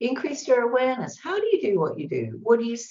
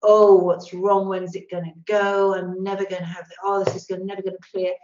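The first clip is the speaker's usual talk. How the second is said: anxious worrying; 6 dB louder than usual. Retold or imitated. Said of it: "the huge sort of monster of that fear".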